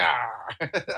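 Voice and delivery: imitated comic-book yell; mock scream. Co-host echoing the Logan cover gag, mock scream. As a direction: echo a cartoonish cry.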